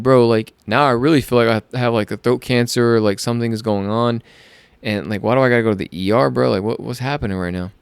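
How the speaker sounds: mildly worked-up retold panic; freaking out. Patient alarmed about being sent to the ER, mildly freaking out. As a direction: replay your alarm with a touch of urgency. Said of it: "I'm fucking freaking out".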